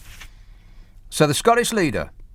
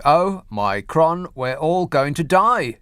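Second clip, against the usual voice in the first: mock panic; 2 semitones higher, slower than usual. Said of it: "she said".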